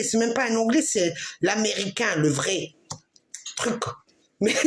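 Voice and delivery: ordinary talk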